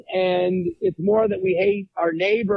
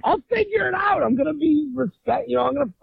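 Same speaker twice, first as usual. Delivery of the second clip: meek wuss; 7 semitones higher than usual. Retold or imitated. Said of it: "I'm a big wuss".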